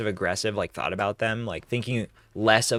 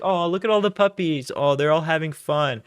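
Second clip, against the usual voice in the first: high, bright mock dog-lover; cheerful dog owner; 5 semitones higher, 3 dB louder than usual. Mocking happy families at the park, high gushing. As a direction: gush over the puppies.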